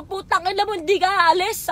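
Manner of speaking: retold angry outburst. Drunken confrontation retold.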